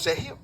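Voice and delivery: "Sergio" as "Sehio", breathy h for rg; Andalusian pronunciation. Shown as a demonstration. Andalusian lecturer showing their own speech, aspirated middle. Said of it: "Decimos Sergio".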